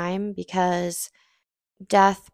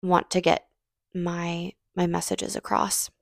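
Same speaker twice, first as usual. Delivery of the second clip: choked up; 3 dB quieter than usual. Real, not acted. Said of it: "I'm getting choked up".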